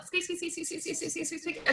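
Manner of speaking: high squeaky mouse voice; playful high mouse squeaks for the kids. Shown as a demonstration. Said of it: "can you make it squeak".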